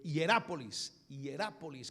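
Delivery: "Hierápolis" with the accent on RÁ; stress on the A. Shown as a demonstration. Preacher clarifying the city's name, stressing the A in "Hierápolis". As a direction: land on the third syllable of "Hierápolis". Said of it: "con tilde en la A".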